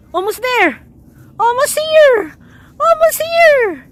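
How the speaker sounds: rising excitement at a near miss; excited near-miss cheer. Real, not acted. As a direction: call it out, stretching the last one. Cheering near misses, building.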